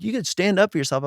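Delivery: playfully imitating his scolding wife; mock wife. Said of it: "she's like".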